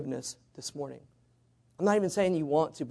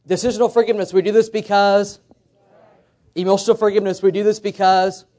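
call and response; 3 semitones higher, 6 dB louder than usual. Shown as a demonstration. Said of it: "let's try this".

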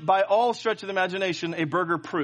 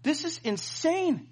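raving praise; 6 semitones higher, 3 dB quieter than usual. Retold or imitated. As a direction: rave about it in hushed disbelief. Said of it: "I gotta tell you".

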